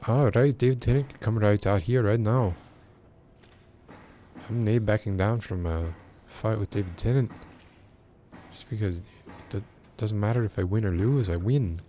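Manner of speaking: jokey Scottish brogue squaring up for a fight; Scottish accent. Pretend. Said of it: "that Scottish wasn't, like, a super bad caricature".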